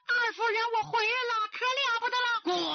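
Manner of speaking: high, urgent alarm. A narrator's reading. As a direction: burst in with bad news. Maid bursts in alarmed.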